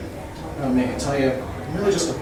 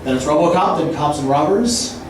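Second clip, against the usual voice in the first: rapid absurd wordplay rant, building; escalating comedy rant. Acted. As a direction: riff faster and wilder as it goes. Roast-style free-association rant.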